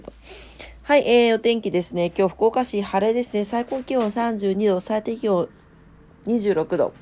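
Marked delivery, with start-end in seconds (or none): 6.3-6.9 yawning mid-word; words stretched by a yawn. Real, not acted. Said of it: "あくび出ちゃった". (あくびしながら)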